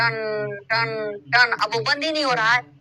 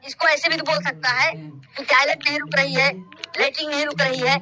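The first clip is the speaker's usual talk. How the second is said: mock indignant rant; 3 semitones higher than usual. Comic rant at the patient.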